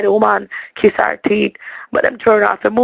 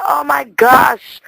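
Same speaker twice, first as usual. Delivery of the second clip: exasperated outburst; 2 semitones higher, much slower than usual. Retold or imitated. Fed up with talking guide.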